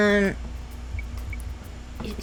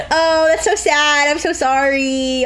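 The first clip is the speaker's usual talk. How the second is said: fake sympathy; slower than usual.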